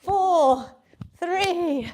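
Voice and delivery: counting down loud and punchy; energetic countdown. Real, not acted. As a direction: call each number out to push them on. Calling out final countdown.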